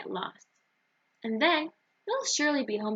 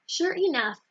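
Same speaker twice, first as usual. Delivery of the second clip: higher, louder hearty agreement; fishman agreeing; 6 semitones higher, 3 dB louder than usual. A narrator's reading. Fishman agreeing to serve David quickly, higher and hearty. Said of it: "agreed Fischel the fishman".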